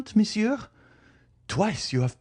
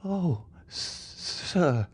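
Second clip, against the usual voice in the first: high, broken, frightened stammer; stammering terror; 11 semitones higher, much slower than usual. A narrator's reading. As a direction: catch on the word in fear. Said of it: "she stammered".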